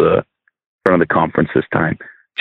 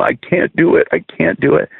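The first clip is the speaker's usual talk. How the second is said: higher pitched, lightly voiced young girl pleading; imitating a distressed girl; 9 semitones higher than usual. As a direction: lift the voice up to the hurting ten-year-old. Retold distressed child refusing.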